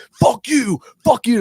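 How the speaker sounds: imitating a staffer swearing at fans; mock angry swearing. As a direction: bark it at the stands, mock furious. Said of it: "on camera just being like".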